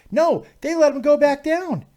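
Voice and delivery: high, loud incredulous outburst. Real, not acted. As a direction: burst out in astonishment at the news. Reading surprising news about the fighter.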